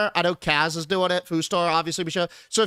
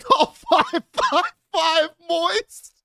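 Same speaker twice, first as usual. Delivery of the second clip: drawn-out, higher car-ad sales call; slow mock ad pitch; 8 semitones higher, 5 dB louder, much slower than usual. Streamer mimicking the car ad's phone number, slow sales pitch. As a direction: stretch the number out like a cheesy ad.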